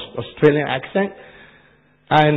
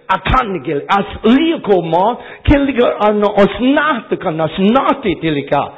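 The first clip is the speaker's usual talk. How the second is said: rapid tongues syllables, a touch louder; speaking in tongues; 4 semitones higher, 4 dB louder than usual. Shown as a demonstration. Preacher demonstrating tongues during intercession. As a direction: let the tongues flow out. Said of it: "different language comes out".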